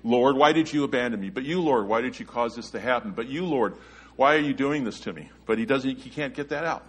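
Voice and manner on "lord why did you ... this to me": pleading, raised voice, imagined David; anguished plea to God. Retold or imitated. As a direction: voice a desperate cry to the Lord. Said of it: "It almost sounds like he was gonna say something like".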